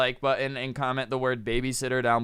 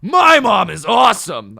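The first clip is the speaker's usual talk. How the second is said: loud, higher-pitched hammed-up bragging; over-excited kid shout; 6 semitones higher, 13 dB louder than usual. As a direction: blurt it out like an overeager child. Imagined kid bragging out of nowhere.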